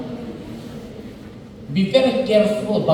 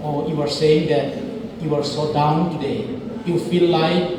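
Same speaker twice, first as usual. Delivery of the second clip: empathizing; 3 dB quieter than usual. Shown as a demonstration. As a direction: reflect their feelings back softly. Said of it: "you can say like this".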